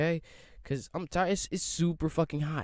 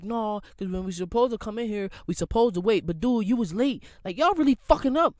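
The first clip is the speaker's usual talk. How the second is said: mock angry coworker; 5 semitones higher than usual. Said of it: "And he like".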